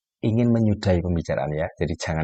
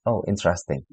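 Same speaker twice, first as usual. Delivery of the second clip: flat interesting; 2 semitones lower, 3 dB quieter than usual. Shown as a demonstration. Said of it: "satu kata interesting".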